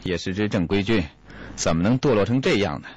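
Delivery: a lightly voiced Li Yunlong, sighing and shaking his head in mock dismay; sighing lament. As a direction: grumble it with a rueful sigh, half scoffing. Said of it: "摇头叹道". (略带叹息、摇头数落的语气)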